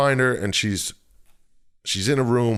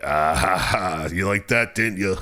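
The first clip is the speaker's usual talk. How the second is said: mock evil demon; 2 semitones lower than usual. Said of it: "The darkness is like".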